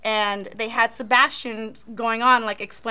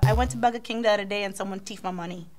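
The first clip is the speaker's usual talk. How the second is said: Caribbean accent; faster than usual. Shown as a demonstration. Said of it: "I have a line".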